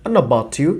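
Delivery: "I know about you" run together, "an a bati u"; "I know about you" squeezed into one flow; native blend. Shown as a demonstration. Teacher imitates native speakers running the phrase together. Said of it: "নেটিভরা বলছে তখন বলছে".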